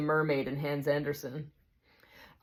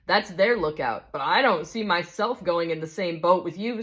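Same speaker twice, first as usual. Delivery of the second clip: indignant big ghost; 2 semitones higher than usual. Acted. Big ghost insists on his rights to the spirit, indignant. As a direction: insist on your rights, stung.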